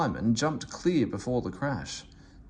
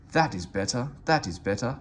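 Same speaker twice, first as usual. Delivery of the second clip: happily. Acted. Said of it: "puffed Henry more happily".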